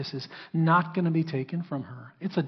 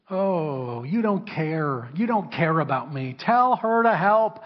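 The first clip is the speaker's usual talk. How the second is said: whiny complaint; 4 dB louder, slower than usual. Acted. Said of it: "She's complaining".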